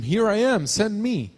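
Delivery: high, loud, eager reply; volunteer eagerly, voice lifted; enthusiastic. Retold or imitated. Interpreter echoes the preacher volunteering to be sent, enthusiastic. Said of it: "I said with enthusiasm".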